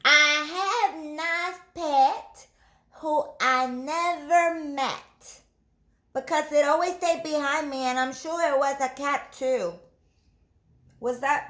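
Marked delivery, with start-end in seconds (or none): 0.1-9.8 put-on slow, higher child reciting; slow recital. Ruby reciting a copied poem, slow and careful. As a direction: recite it slowly. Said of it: "recited slowly".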